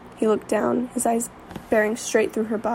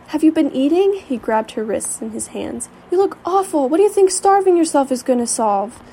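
high, loud worried scolding; stern worry; 4 semitones higher, 5 dB louder than usual. Acted. Worried friend scolds her.

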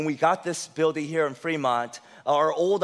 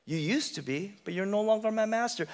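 quiet declaration; 6 dB quieter than usual. Shown as a demonstration. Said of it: "you must declare".

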